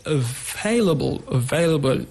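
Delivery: "available" stressed on VAI; second-syllable stress. Shown as a demonstration. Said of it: "On the second syllable".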